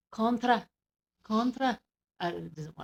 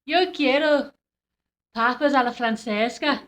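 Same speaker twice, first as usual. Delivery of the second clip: attempted Irish on Spanish; slightly lifted, tentative Irish; Irish accent; 3 semitones higher than usual. Shown as a demonstration. Trying Spanish for co-host, light Irish accent. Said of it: "I need my Irish accent".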